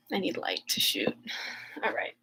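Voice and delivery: real hopeful whisper. Real, not acted. Vlogger losing her filming light, whispering. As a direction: breathe it softly, half to yourself. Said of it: "My light is gone".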